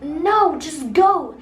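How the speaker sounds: mildly forceful retold order; insistent mom. Mom urging her reluctant child to talk to strangers, insistent.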